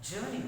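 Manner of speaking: JOURNEY said the English way, first syllable stressed; English pronunciation. Shown as a demonstration. Teacher correcting the Telugu version, English pronunciation. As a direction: model JOURNEY in English, without a sounded r. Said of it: "So that is why journey".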